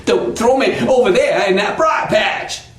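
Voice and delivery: panicky, stuttering plea; fast-talking Brer Rabbit. Acted. Cornered rabbit pleads with fox, fast and stuttering. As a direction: stammer and rattle off desperate begging. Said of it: "he starts to talk really fast too".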